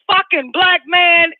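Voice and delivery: shout. Real, not acted. Punchline shout.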